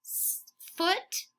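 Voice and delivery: hushed footsteps. Shown as a demonstration. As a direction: breathe "footsteps" softly like tiptoeing. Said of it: "That's what we do in class".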